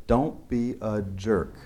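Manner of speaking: slow, deliberate "Don't be a jerk", each word spaced out; slow motto. Shown as a demonstration. Speaker stating his life motto, slow and deliberate. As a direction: spell out "Don't be a jerk" slowly, leaning on "Don't". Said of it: "I'll paraphrase".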